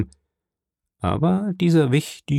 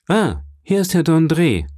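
higher exclamation on seeing someone arrive; calling out; 7 semitones higher, 4 dB louder than usual. A narrator's reading. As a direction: call it out at a raised pitch. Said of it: "rief der Graf von Blacas".

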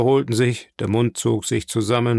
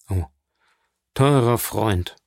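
gentle exclamation; slower than usual. A narrator's reading. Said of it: "rief Herr d'Avrigny".

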